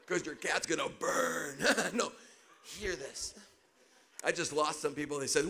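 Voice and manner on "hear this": quiet. Real, not acted. Preacher repeats line seriously.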